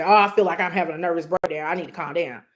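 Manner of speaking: quick, anxious rush of words; a fast, worried complaint; fretful self-talk. Shown as a demonstration. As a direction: blurt it out like you're frazzled. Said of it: "Don't say".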